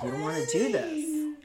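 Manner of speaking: pleading. Retold or imitated. Woman begging armed man to stop, pleading. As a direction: beg urgently with a cry in the voice. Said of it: "And I'm pleading".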